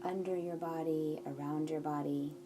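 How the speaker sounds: unhurried meditation guide, leaving room between instructions; guided meditation. Acted. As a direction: guide them gently into settling the body, phrase by phrase.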